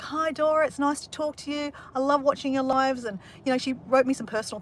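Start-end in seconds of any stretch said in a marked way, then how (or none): 0.0-3.0 lightly voiced friend reading her email, a bit higher; a hint of a cheerful friend's greeting; Susan's email. Dora reads out her friend's email in a light, higher voice. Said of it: "she's written me a long email like".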